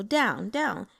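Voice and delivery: "down, down" each with a falling tone; fourth tone demo. Shown as a demonstration. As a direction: drop the pitch on each "down". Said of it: "are the fourth tone".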